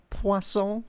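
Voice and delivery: Poisson with a laugh, wah-soh rising; relishing the name. Shown as a demonstration. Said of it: "it's just such a good name to say".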